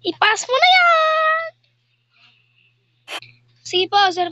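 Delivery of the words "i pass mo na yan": high, loud, slow put-on voice; teacher voice. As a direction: order it as the teacher. Teacher orders.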